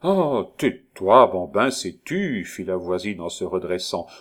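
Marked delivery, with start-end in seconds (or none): 0.0-2.4 drawn-out, lightly acted rebuke; mock scolding. Neighbour silencing the young man, mock scolding. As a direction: start high and loud, then ease off.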